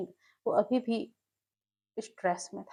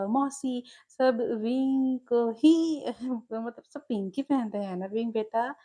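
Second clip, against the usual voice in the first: amused mother. Acted. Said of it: "हंस पड़ी और बोला".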